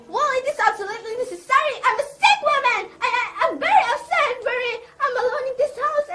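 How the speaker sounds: a nervous invalid insisting she needs a nurse; agitated pleading. Acted. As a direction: rush the words as if nerves are snapping. Hysterical invalid pleading with nurse registry.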